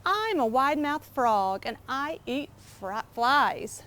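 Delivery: proud little frog, lightly voiced; a hint of a cheerful boasting frog. Frog character voice in story.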